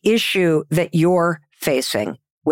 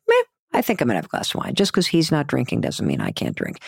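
dismissive meh; 5 semitones lower, 3 dB quieter, much faster than usual. Retold or imitated. Retelling her own shrug-off.

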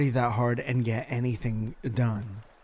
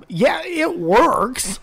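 drawn-out high deadpan; flat mock reviewer; 10 semitones higher, 4 dB louder, much slower than usual. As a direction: drag out the words slowly and high. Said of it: "the last sentence was".

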